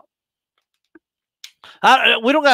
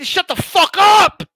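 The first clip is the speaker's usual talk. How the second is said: 1 shout; 8 semitones higher, 4 dB louder, slower than usual. Retold or imitated. Snapping back at the customer.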